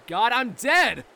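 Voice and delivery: panicked. Acted. Panicked realization.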